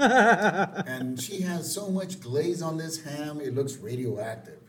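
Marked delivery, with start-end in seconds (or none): 0.0-3.4 laughing. Real, not acted. Laughing while narrating.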